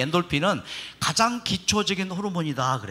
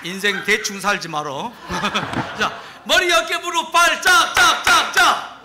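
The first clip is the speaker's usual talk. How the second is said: kindergarten teacher voice; 10 semitones higher, slower than usual. Acted. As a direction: call out the clapping game like a kids' teacher. Leads a children's clapping game.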